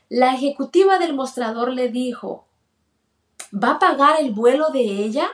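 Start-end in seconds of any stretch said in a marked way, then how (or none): 3.5-5.3 mildly irked, incredulous question; retold clerk's mild annoyance, a little raised; annoyed clerk. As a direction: question it with a touch of irritation. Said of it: "Así y molesta".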